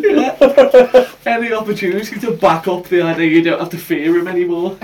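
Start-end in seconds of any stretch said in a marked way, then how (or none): 1.3-4.9 quick talk through nervous laughter. Real, not acted. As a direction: laugh nervously while talking. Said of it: "That's the nervous laugh I've ever heard".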